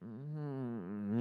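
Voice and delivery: low, soft "mm-hmm"; understated, knowing murmur of onlookers; knowing nonverbal hum. Retold or imitated. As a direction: hum it quietly like a silent shared look. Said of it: "making this nonverbal eye contact".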